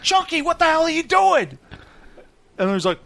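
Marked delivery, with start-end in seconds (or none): 0.0-1.6 high-pitched mock exasperation; hammed-up, incredulous telling-off; exasperated host. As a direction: scold the mascot in a put-on host voice.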